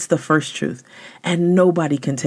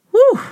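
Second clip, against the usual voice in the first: amazed whew. Real, not acted. Reacting to the Keller quote.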